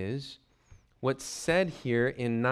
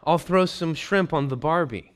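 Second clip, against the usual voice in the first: mock Aussie invite; 3 semitones higher, 5 dB louder than usual. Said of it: "you read it and it says".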